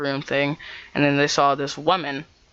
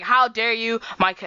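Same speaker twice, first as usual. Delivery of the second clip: high-pitched mock indignation; indignant; 7 semitones higher than usual. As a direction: snap back into outrage, pitched up. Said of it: "her tone changes".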